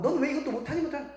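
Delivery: lightly voiced scolding mom; a hint of a nagging mother. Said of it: "엄마가 막 잔소리하고". (엄마가 아이에게 가볍게 흉내 낸 잔소리)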